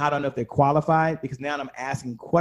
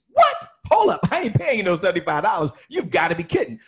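a sharp, much higher and louder "Hold up", then outraged; indignant shock; 4 semitones higher, 4 dB louder than usual. Retold or imitated. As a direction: balk at the price like a cheated customer. Customer shocked at plumber's price.

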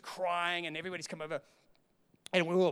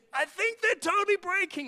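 retold scream; 12 semitones higher, 3 dB louder than usual. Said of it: "Sue just screamed and said".

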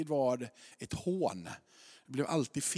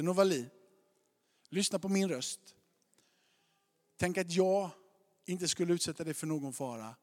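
calm, earnest reassurance. Retold or imitated. Father to daughter on the roof, calm reassurance. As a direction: talk a scared child through it gently. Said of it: "på riktigt så pratar jag på det här sättet".

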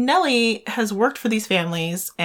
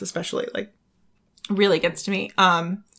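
coughing on a swallow of water; throat catching mid-sentence; choking on a drink. Real, not acted. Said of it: "I just keep choking here".

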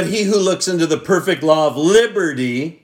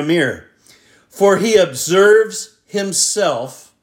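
scripture reading. Acted. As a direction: read it together, each phrase given its weight. Reads scripture aloud with congregation.

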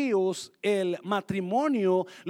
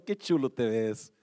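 admiring compliment; 7 semitones lower than usual. Shown as a demonstration. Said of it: "Míralo y dígalo".

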